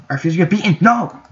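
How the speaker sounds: sharp high yelled no; real burst of protest; real frustrated shout. Real, not acted. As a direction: cry out against losing. Frustrated while being beaten in game.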